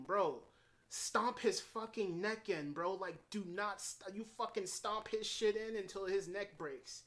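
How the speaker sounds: frustrated fan shouting advice at the TV; yelling at the screen. Retold or imitated. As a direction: viewer yelling at a character to finish the killer, exasperated. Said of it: "I was screaming at the screen".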